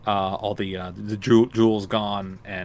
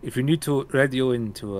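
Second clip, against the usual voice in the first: soldier voice; 5 semitones higher, 4 dB louder than usual. Acted. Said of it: "one of the soldiers says".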